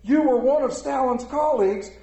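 mock shout from the audience; heckler shouting. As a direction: call it out like a heckler. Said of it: "heckler who shouted from the audience".

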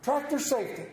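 a hint of a proud young son; child's voice. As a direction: chirp it back like an eager kid. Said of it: "They said".

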